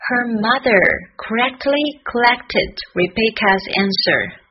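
careful, slowed tongue twister; slow practice. Shown as a demonstration. Teacher easing learners into a hard tongue twister, slowly. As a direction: take the tongue twister word by word. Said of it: "我们慢慢来".

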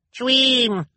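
very high, loud little shriek. A narrator's reading. Sunny protesting to the crowd, shrieking. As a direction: shriek one word at the top of the voice. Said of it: "Sunny shrieked".

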